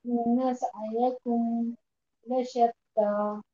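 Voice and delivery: slow, corrected recitation; student repeating the corrected verse slowly; Quran recitation. Shown as a demonstration. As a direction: recite the verse again carefully. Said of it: "हम ऐसे पढ़ेंगे".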